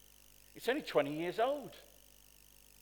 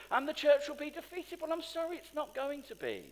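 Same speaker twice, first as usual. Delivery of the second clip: rising indignation; 8 semitones higher than usual. Real, not acted. Mocks then rejects the fear.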